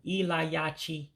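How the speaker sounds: Ilayachi stretched slowly, every syllable clear; careful pronunciation. Shown as a demonstration. Teacher correcting the word for return, slow careful Ilayachi. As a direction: take Ilayachi slowly to get it right. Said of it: "let me get it right".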